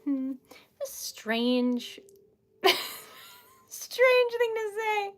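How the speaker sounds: high, slow, laughing words; amused disbelief. Real, not acted. Streamer reacting to a strange remark, laughing. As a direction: squeal it slowly through real laughter.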